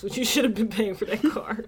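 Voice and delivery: hushed aside; whisper. Real, not acted. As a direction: whisper it like a secret. Secret aside about car price.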